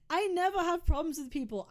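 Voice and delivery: laughing repeat of your own claim. Real, not acted. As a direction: laugh while you say it again.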